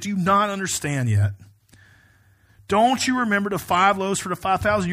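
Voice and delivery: mildly exasperated, emphatic questioning; frustrated rebuke. Retold or imitated. Jesus to disciples who don't understand, mild frustration. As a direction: press the question with restrained frustration. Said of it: "that same kind of frustration".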